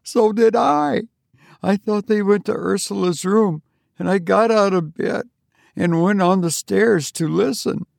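high, hushed eerie telling; grim secret. A narrator's reading. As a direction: share a dreadful secret. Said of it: "a horrible look on her face".

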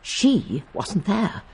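"She wasn't there" with the weight on "there", drawn out slowly; stress on there. Shown as a demonstration. Miss Marple demonstrates one reading, slow stress on there. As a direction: lean on "there", unhurried. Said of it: "there are three ways you can say it".

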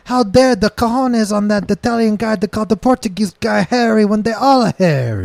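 indignant mock Portuguese rant; fake Portuguese accent. Complaining about Italians in a fake Portuguese accent. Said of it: "racially ambiguous fucking accent".

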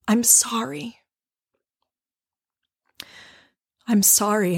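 a gentle, hushed mea culpa; mild whispered apology. Retold or imitated. Driver says sorry through the window, hushed and remorseful.

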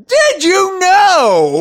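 huge drawn-out high holler. Pretend. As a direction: bellow it, stretching every word way out. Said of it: "did you say that loud enough".

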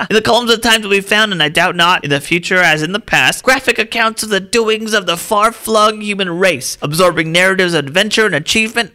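put-on high, declaiming old-timey orator. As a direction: boom it out like a grand old publisher. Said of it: "old-timey voice".

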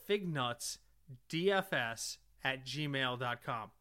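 each letter spelled out slowly; slow, careful spelling. Real, not acted.

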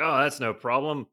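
South African attempt landing on Australian; easygoing guide in a rough Australian-sounding accent; botched South African accent. South African guide reassuring the bitten tourist, botched Australian-sounding accent. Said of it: "That's Australian. That's not right".

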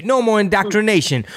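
hammed-up rally slogan, high and proud; imitating a campaign ad. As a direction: shout it out like a campaign promise. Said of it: "your political ad".

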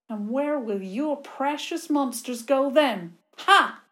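gloating villain, loud; bossy little princess. Acted. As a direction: taunt him with cruel glee. Villain gloats over her plan.

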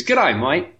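jokey Australian greeting; put-on Australian accent. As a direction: say "mate" like "mite", Aussie style. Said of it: "why don't you give us an accent".

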